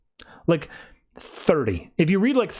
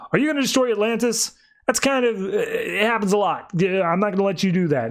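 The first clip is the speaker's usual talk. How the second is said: higher-pitched, mildly indignant objection; mild protest; 6 semitones higher than usual. Retold or imitated. Aquaman challenging the ones attacking Atlantis, mildly indignant. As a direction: push back in a raised pitch.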